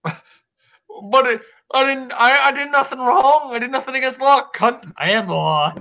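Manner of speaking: high, hammed-up Australian accent; Australian accent impression. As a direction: play a brash Australian cop in an Australian accent. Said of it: "I can't do an Australian accent".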